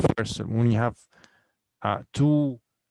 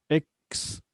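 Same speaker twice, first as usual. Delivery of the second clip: "Experienced" spaced out in four beats; long gaps between the syllables of "Experienced"; 5 semitones higher than usual. Shown as a demonstration. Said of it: "we have four syllables here".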